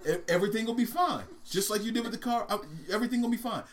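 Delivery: acted breezy reassurance; reassuring elephant. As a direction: talk the mouse down from panic. Elephant reassures mouse in the hole.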